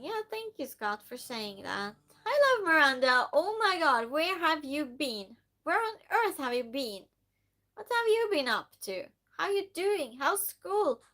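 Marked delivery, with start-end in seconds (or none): 2.2-11.0 high, loud delighted welcome; excited high welcome to Miranda; excited greeting. Real, not acted. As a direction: gush over a returning friend. Greeting returning viewer.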